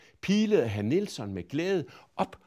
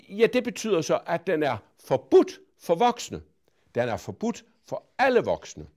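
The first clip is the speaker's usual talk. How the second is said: put-on high, loud, cheeky girl voice; a bold, polite little girl lecturing; Pippi's voice; 6 semitones higher, 9 dB louder than usual. A narrator's reading. To Mrs Finkvist, cheeky little girl voice.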